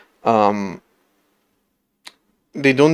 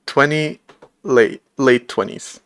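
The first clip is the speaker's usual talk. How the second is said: slow, lightly voiced old man; drawn-out words of a tired old man. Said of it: "started doing, like, the old man voice".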